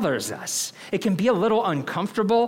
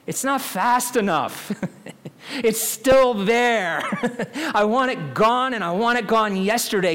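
frustrated laughing; 7 semitones higher, 4 dB louder than usual. Retold or imitated. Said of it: "I could hear the frustration in her voice".

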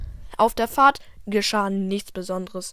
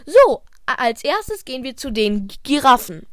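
loud teacher announcement; 3 semitones higher, 6 dB louder than usual. Acted.

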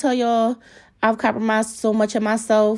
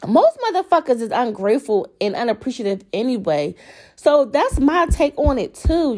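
rising heat, voice jumping high; worked up; 4 semitones higher than usual. Real, not acted. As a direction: get fired up about it. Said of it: "I'm getting all, like, worked up".

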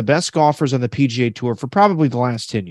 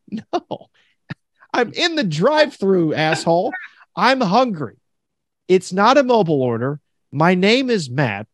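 higher, fed-up retold rant; mock exasperated rant; 5 semitones higher than usual. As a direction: vent at the clueless worker, half-laughing. Retold rant at Wendy's worker.

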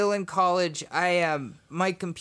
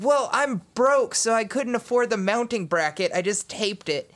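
indignant; 6 semitones higher than usual. Retold or imitated. Retorting to the Cisco engineer.

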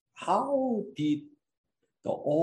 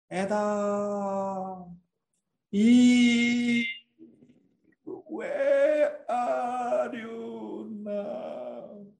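God calling out, crying; 3 semitones higher, much slower than usual. Acted. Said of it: "God is calling out".

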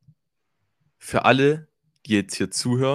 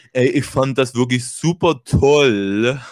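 slow, louder, drawn-out judge voice; Bruce impression; 5 dB louder, much slower than usual. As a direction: drawl it like a TV jury judge. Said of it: "dann kommt Bruce an und sagt".

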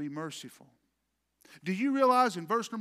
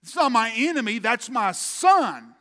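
grieving father; 5 semitones higher, 10 dB louder than usual. Retold or imitated. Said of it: "David's like".

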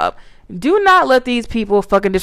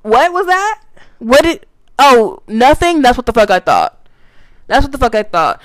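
mock taunting; 3 semitones higher than usual. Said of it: "I'm like, uh, eh".

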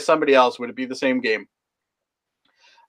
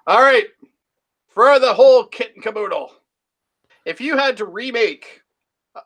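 game show host; 5 semitones higher, 3 dB louder than usual. Acted. Host announces final big question.

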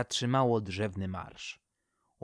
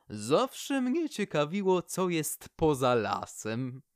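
slow, wistful tree voice, lightly voiced; Poplar's longing; 5 semitones higher, slower than usual. The poplar slowly confides to the owl her longing to see beyond the forest. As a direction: linger on it like a long-held wish.

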